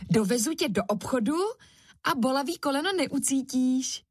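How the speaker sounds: put-on high, eager child's voice; pleading boy. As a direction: plead and bargain like a small boy. Kuba pleading to avoid shopping.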